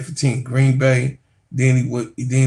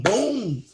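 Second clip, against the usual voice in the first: mock punch sound; 7 semitones higher than usual. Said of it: "he said it was just like boom".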